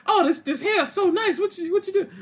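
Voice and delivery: high, soft admiring voice; mock admirer asking about hair; fawning mock voice. Mimicking a fawning character.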